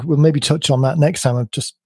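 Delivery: slightly croaky, tired voice; croaky from talking a long time. Real, not acted. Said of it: "which accounts for my croaky voice".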